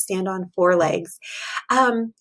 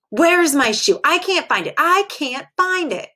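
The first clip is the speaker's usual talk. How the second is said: put-on higher, whiny lost-shoe child; upset child voice; 5 semitones higher than usual. Percy whining to his mommy about his shoe. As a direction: whine like a kid who lost a shoe.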